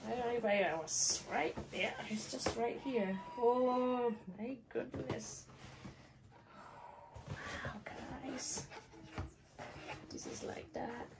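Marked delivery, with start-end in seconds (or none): 3.4-11.1 hushed whisper to the viewers. Real, not acted. Showing viewers the bag, hushed whisper. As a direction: let it out in an awed whisper.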